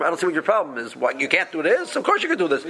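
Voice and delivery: mock-incredulous question, pitch leaping on the answer; rhetorical question. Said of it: "saying in a question form".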